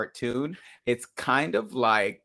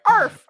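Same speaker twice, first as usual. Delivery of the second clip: high yappy bark; dog bark; 11 dB louder than usual. Retold or imitated. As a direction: yap like a small dog. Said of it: "It was really just a bark".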